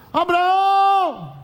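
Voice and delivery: high, slow drawn-out call of Abraão; Sara calling out. Acted. Sara calling her husband from the tent, long call. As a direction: stretch the name out like calling across the camp.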